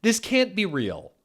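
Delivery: high, laughing, incredulous; can barely get through it; laughing disbelief. Real, not acted.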